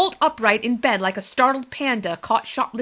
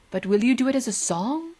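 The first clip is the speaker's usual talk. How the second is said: eager; 3 semitones higher than usual. Acted. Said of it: "he asked eagerly".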